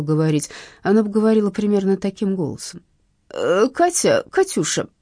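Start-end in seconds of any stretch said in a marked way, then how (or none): 3.3-4.9 groaning plea. Acted. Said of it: "простонала трубка".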